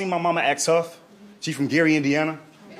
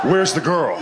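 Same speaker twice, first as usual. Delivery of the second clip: louder mock-menacing demand; Liam Neeson menace; 5 dB louder, slower than usual. Mom demanding the girl, mock action-hero voice. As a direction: hit it harder, action-hero style. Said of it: "Liam Neeson in her".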